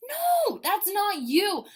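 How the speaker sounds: high sharp NO, then slow; firm no. Real, not acted. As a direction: cut them off firmly. Sharp correction.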